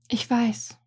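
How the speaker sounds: a slightly hushed, understated murmur. A narrator's reading. Princess answering her friend's warning, murmured. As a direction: murmur it lightly, almost under the breath. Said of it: "murmelte die andere Frau".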